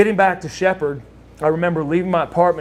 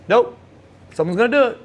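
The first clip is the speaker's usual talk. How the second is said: raised, mildly acted confidence; relentlessly positive; 7 semitones higher, 3 dB louder, faster than usual. Lex insisting to his friend the surgery will happen, positive. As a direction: brush off doubt in a higher voice. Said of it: "just Mister Positive".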